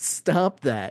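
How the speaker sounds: words pushed through barely suppressed laughter. Retelling a film take where the actor held back laughter: imitating Gene Wilder talking through a smile. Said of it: "he's smiling and you can hear him and he's like".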